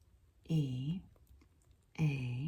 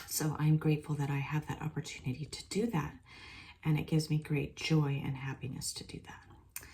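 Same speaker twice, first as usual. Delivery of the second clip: whisper; faster than usual. Real, not acted. Whispered channeling thanks.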